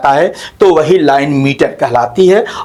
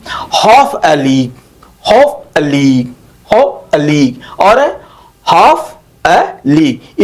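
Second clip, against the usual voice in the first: "हाफ अ लीग" drawn out word by word; slow metrical scansion; 3 semitones lower, much slower than usual. Shown as a demonstration. Teacher scanning Tennyson's line, slow and measured. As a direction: chant "हाफ अ लीग" slowly, a small gap after हाफ. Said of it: "इसमें दो unstressed सेल बुल आए हुए हैं".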